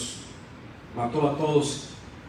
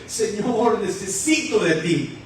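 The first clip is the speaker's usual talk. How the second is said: mock sobbing plea from the gut, lightly done; full-voiced imitation of crying out to God; acted heartfelt plea; slower than usual. Believer drawing it up from the stomach, mildly sobbing plea. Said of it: "ese sollozo, y empieza a decirle".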